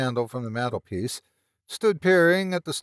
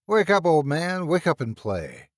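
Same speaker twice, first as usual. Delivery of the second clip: calling out; 4 semitones higher, 3 dB louder than usual. Acted. Shaking a sleeping friend.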